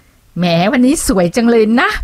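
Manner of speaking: sarcastic compliment. Shown as a demonstration. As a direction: praise her while mocking her. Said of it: "มันดูแบบประชดประชันแดกดันอะไรอย่างเงี้ย".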